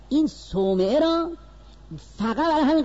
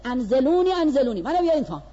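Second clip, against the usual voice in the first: raised, higher mock cry for help; retold shout; 4 semitones higher, 3 dB louder, faster than usual. Monk begging the soldiers to bring him down, mild mock shout. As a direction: call down from the monastery window, half-shouted. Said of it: "فریاد زد".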